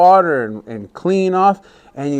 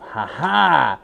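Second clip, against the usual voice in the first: gloating trickster; 3 semitones higher, slower than usual. Acted. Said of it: "Sinclair thought to himself".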